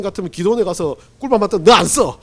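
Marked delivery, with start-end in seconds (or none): 1.6-2.2 a curt, louder brush-off; mock stern refusal. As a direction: play God flatly rejecting him. Voicing God rejecting Gideon. (장난스럽게 단호한 거절)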